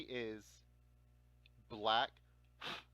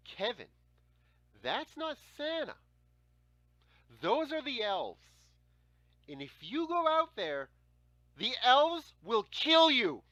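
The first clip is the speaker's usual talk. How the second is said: higher, slow, louder spooky big-brother warning; big brother scaring me; 10 semitones higher, 9 dB louder, slower than usual. Retold or imitated. Big brother scaring little Kevin about killer elves, slow spooky warning. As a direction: drag it out to scare the little kid. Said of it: "My brother looks at me and says".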